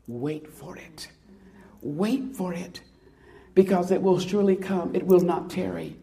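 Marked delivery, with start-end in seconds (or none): 0.1-1.1 hushed and slowed, drawing the words out; soft slow reading. Shown as a demonstration. Reading scripture to the congregation, soft and slow. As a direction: let the verse settle quietly. Reads verse softly, then repeats.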